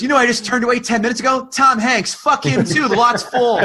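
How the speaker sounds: high, fast dismissive gatekeeper; cocky ticket taker. Pretend. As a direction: brush them off with swagger. Imagined ticket taker boasting.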